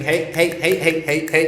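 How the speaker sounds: mock-urgent attention grab; retold urgent calling. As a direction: rouse someone who is fainting. Midwife calling a fainting man back.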